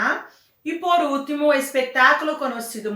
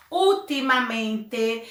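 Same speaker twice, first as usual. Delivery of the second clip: ultimamente, slow, with a strong first syllable; stress on UL; slower than usual. Shown as a demonstration. Teacher gives an example of sobresdrújula, slow, stressing the start of ultimamente. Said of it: "antes da antepenúltima".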